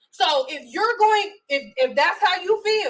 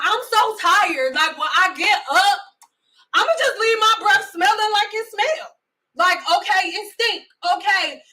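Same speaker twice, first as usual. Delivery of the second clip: mocking impression; 3 semitones higher than usual. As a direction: act out their lazy excuse. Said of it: "this, this how y'all sound".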